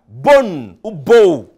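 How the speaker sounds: "bonne ou beau" stretched very slowly and loud; drawn-out word demo. Shown as a demonstration. Teacher stretching "bonne ou beau" slowly and loudly for students. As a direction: draw out "bonne ou beau" long and loud for the class.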